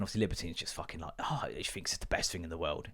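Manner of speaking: soft unvoiced whisper aside. Real, not acted. Dad whispering about his daughter, unvoiced. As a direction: whisper so she won't hear.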